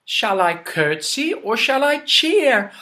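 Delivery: plain reading voice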